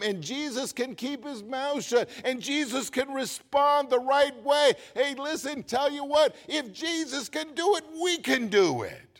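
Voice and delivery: high-pitched, building pulpit climax; fervent preaching. Real, not acted. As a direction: drive it upward to a rallying finish.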